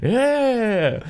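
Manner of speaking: high, drawn-out imitation cheers; guttural cheering. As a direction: imitate a wordless onlooker whooping yeah. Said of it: "just guttural, like, yas or oohs".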